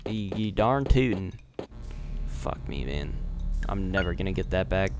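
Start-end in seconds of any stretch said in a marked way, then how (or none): 0.0-1.3 Southern accent. Shown as a demonstration. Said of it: "absorbed in the southern accent".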